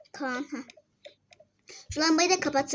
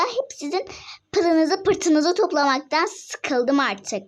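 exasperated; 4 dB louder than usual. Real, not acted. Mother fed up with chores.

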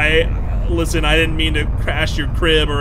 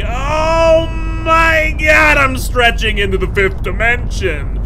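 very slow, much higher shout; startled shout; 11 semitones higher, 8 dB louder, slower than usual. Real, not acted. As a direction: yell it long as you're pulled. Dragged by tether.

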